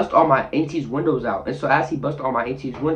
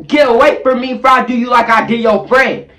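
mock threat; 6 semitones higher, 6 dB louder than usual. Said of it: "and I'm like".

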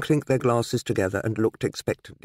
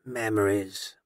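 put-on wistful old man reminiscing; nostalgic; much slower than usual. A narrator's reading. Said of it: "with a nostalgic smile".

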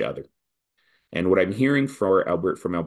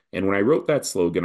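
normal talking voice

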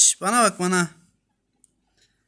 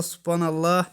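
ordinary talk, nothing marked

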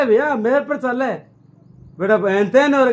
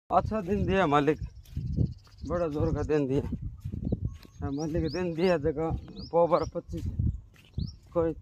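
put-on town drunk; 5 semitones lower, 10 dB quieter than usual. Drunk mumbling to himself.

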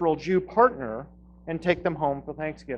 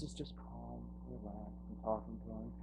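calm and relaxed; 5 semitones lower, 20 dB quieter than usual. Retold or imitated. Contrasting calm Harris.

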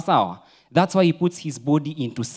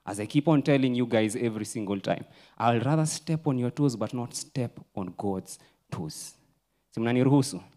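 ordinary delivery

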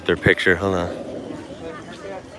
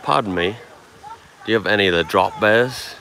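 put-on lightly done, clumsy Aussie accent; attempted Aussie accent. Visitor pretending to ask zoo staff about drop bears, attempted Aussie accent. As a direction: have a half-hearted go at an Australian accent. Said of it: "a real Aussie accent".

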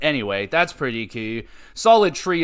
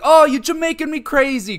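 higher, louder playful pun delivery; imitating Punk joking; 13 semitones higher, 7 dB louder than usual. Punk greeting Kofi backstage, playful higher mock voice. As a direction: toss off the pun like a goofy greeting. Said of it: "He's like".

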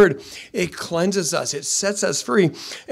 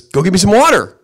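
put-on louder firm command from an old grandfather; stern grandpa; 4 semitones higher, 8 dB louder than usual. Grandpa sending his grandson back to the creek, firmly. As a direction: order the boy back down. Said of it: "He says".

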